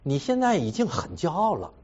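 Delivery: calmly quoting his wife's charge; wife's accusation. Retold or imitated. Husband quoting his wife's verdict on his pride, mild. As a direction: plainly retell her blunt verdict. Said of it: "他说".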